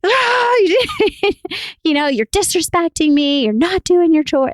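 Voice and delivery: high, loud mock mom rage at the kids. Mother scolding her kids over chores, high, loud mock rage. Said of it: "mom rage where I'm like".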